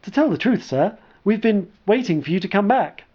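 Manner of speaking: nervous. Acted. Sark confessing to commander.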